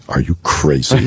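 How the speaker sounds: high-pitched mock disbelief; incredulous response. Actor answering an absurd request to go on, incredulous. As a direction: play up the incredulity, pitch lifted. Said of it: "my response would be".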